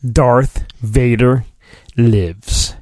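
slow, low ominous reveal. Pretend. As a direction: announce it like doom.

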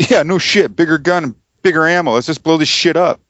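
high, eager moviegoer egging the dad on; excited moviegoer. Retold or imitated. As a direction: pump it up like a rowdy fan. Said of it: "the guy sitting behind us goes".

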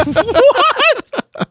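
baffled what. Retold or imitated. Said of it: "I was like".

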